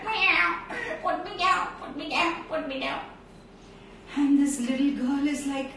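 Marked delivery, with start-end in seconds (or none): 0.1-0.6 high, plaintive cat voice; cat meow. Acted. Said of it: "and the cat is". 1.0-3.0 higher, pleading little cat voice; talking cat. Acted. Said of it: "and the cat is".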